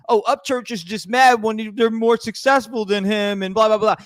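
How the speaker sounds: high, sung mockery of their excuse; mocking sing-song. Ranting vlogger mocks the critics' excuse in a high sing-song.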